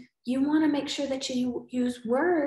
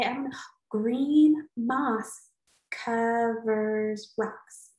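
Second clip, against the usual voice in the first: slow try-out; much slower than usual. Shown as a demonstration. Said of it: "So maybe I could say".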